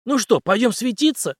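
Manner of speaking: a confident ex-captain explaining his trick; Henry's voice. Acted. Henry's put-on voice.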